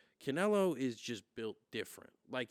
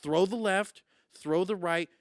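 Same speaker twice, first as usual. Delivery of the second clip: shouted, higher coach pep talk; fired-up coach; 6 semitones higher, 6 dB louder than usual. Retold or imitated. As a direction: bark it like a corner coach rallying his fighter. Coach's fiery between-rounds speech.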